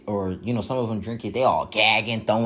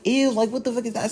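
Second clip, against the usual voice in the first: disgusted; 8 semitones higher than usual. Retold or imitated. Disgusted at the bug drink.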